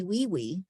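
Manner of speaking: Lily said as "wee wee". Retold or imitated. Teacher retells child's mispronounced Lily, W for L. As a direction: put W in place of both Ls in Lily. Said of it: "To say the L like a W".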